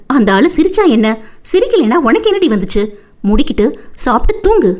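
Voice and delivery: put-on young woman briskly scolding herself; mild self-chiding, lifting in pitch; talking to herself. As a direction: give yourself a little pep talk. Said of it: "என்று தனக்குள்ளே பேசிக்கொண்டு".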